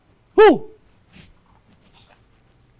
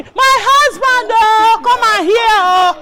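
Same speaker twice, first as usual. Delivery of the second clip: lamenting wail; 3 semitones higher, 5 dB louder, slower than usual. Acted. Madam lamenting to her absent husband, slow wail. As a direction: wail it out slowly.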